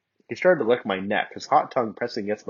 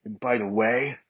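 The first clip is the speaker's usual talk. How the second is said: growled; 2 semitones higher than usual. Acted. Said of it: "Bakugo growled".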